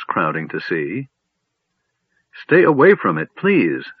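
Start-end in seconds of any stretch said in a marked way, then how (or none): 2.3-3.9 high, loud, pleading urgently; begging. A narrator's reading. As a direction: beg them to keep away. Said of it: "Silvara begged".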